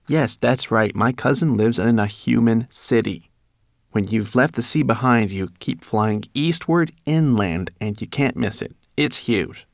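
busy little rat giving counsel; rat, advising. A narrator's reading. Voices the rat.

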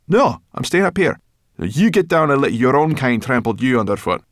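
high, loud, cross brownie; huffy, defiant little creature; stubborn defiance. Acted. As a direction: refuse point-blank and scold back. Brownie stubbornly refuses to climb down.

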